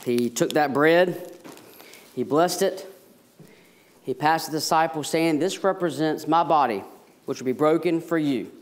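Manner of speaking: measured, reverent words of institution; solemn communion liturgy. Acted. Pastor to congregation at the Lord's table, solemn and reverent.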